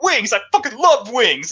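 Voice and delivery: mock-appalled cartoon outburst; Quagmire. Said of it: "just absolutely appalled that none of his friends".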